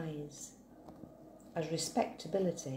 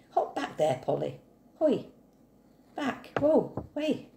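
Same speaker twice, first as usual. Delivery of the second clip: ploughman's calls, the last ones much higher and louder; calling to horse; 7 semitones higher, 4 dB louder than usual. Acted. Maguire at the plough calling to his horse Polly, loud calls. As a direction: shout the commands across the field.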